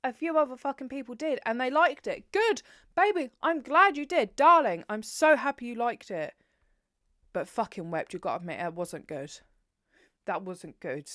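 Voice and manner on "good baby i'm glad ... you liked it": high, loud sugary mock congratulations; sarcastic sweet praise. Telling other readers she's glad they liked it, sarcastic sweetness. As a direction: gush with fake sweetness.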